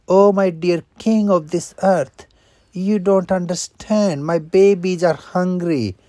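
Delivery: mother wolf calling to the cave top; calling up loud. Acted. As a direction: shout up so the tiger hears.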